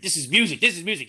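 a father gushing over his records; mock enthusiastic dad. Dad showing off his music, mock enthusiastic. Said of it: "he's like".

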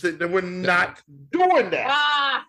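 stopping a co-host's silly answer, loud mock protest. Real, not acted. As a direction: halt the joke with a drawn-out mock shout. Objects to joke answer.

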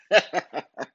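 short high chuckle; amused laugh. Real, not acted. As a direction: laugh at your own sign-off. Laughs at own sign-off.

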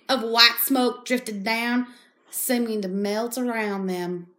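loosely faked Southern accent; put-on Southern accent. Reading a vampire novel in a funny accent, roughly Southern. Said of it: "then you went into Southern".

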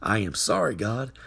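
low, subdued prayer; model prayer. Shown as a demonstration. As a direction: pray humbly and apologetically to God. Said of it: "and just say".

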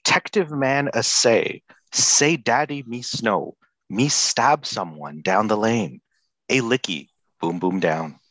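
dramatic reading. Shown as a demonstration. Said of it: "such strong lyrics".

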